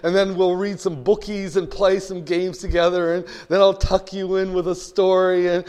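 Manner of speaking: lightly voiced eager, loving parent; doting parent. Devoted parent to a child on the couch, mock-sweet coaxing. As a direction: coax a child with affectionate promises.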